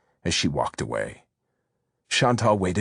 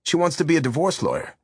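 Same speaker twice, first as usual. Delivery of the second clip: a hint of a breezy boyfriend, higher; lightly voiced Javier; 7 semitones higher than usual. A narrator's reading. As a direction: brush it off, amused. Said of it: "he said easily".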